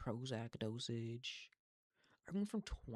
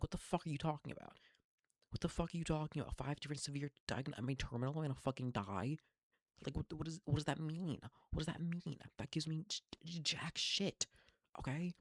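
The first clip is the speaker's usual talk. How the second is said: raised, higher voice, incredulous and angry; reliving her furious reply to the doctor; retold outburst; 5 semitones higher, 3 dB louder than usual.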